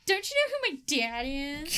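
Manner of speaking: lightly voiced spoiled-child indignation; mock entitled brat. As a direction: whine it like daddy's pampered child. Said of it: "you're doing that really well".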